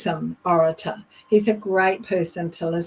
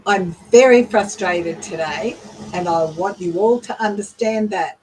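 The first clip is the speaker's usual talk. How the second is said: slightly louder, firm statement of frustration; mildly frustrated, emphatic delivery; 3 dB louder than usual. Shown as a demonstration. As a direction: press the point with a touch more volume. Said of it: "Might be something that you say louder".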